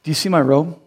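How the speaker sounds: lightly voiced proud man, grinning; proud healed man. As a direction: show off the robe with a chuckle. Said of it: "he's going".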